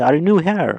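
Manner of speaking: new lifted high, the voice drawn out upward; rising question. Shown as a demonstration. Teacher showing students a rising yes-no question. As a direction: stretch it up like a real question. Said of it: "তখন একটু টেনে বলতেছি".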